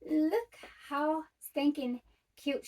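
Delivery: slow, cooing high gush; gushing cute voice. Real, not acted. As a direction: coo over the bag, drawn out. Showing off cute bag.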